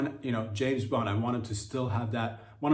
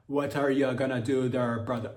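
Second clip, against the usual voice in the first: attempted Jamaican. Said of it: "The more I try to do the Jamaican".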